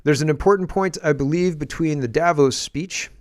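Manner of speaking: halting politician's statement with very long pauses; Mark Carney. Retold or imitated. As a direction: deliver it in slow, separated chunks, imitating a politician. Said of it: "Sorry, he's kinda slow".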